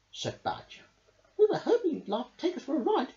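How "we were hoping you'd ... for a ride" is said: fast, high, laughing ask. Acted. Rabbit asks Mole for a balloon ride, laughing. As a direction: laugh through the cheeky request. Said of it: "laughed Rabbit".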